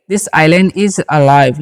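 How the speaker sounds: very slow, word by word, for learners; slow dictation pace; slow model sentence. Shown as a demonstration. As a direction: spell it out slowly for the class. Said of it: "teacher models English sentence".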